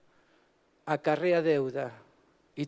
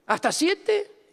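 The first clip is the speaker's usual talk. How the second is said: drawn-out question; 11 semitones higher, much slower than usual. Shown as a demonstration. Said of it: "Y los voy contando".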